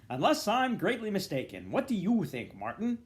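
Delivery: high, loud arch aside; sly insinuation. Acted. Dedalus hinting to Martin, high and loud. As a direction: insinuate with a knowing sneer.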